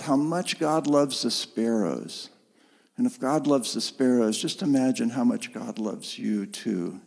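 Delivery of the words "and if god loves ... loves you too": gentle, lowered voice; compassionate reassurance. Retold or imitated. Jesus comforting his followers about God's love, compassionate. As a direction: reassure them tenderly, dropping lower. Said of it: "I hear Jesus as a compassionate voice".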